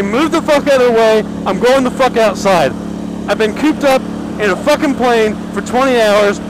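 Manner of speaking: mildly heated retelling of snapping at the wife; a touch of annoyed bark, retold; grumpy retort. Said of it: "I'm not fucking happy at all".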